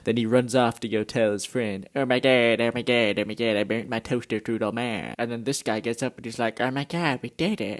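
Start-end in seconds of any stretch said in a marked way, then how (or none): 1.9-5.1 lightly put-on silly character voice; mock panic in a goofy, odd voice; goofy mangled vowels on a retold line. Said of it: "I don't know why I'm talking like this". 6.6-7.8 lightly put-on goofy voice; silly mangled vowels, only slightly acted; odd put-on voice. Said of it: "I don't know why I'm talking like this".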